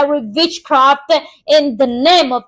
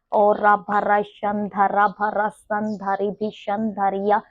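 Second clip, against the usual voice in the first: lower, softer murmured tongues; soft speaking in tongues; 5 semitones lower, 5 dB quieter than usual. Real, not acted. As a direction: pray quietly in tongues.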